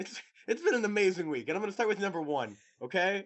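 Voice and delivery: high-pitched, animated mock vlogger; John Green impression. Friend parodying co-host's rundown of the week, hammed-up. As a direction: gush like a hammed-up video presenter. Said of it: "turning into John Green as we speak".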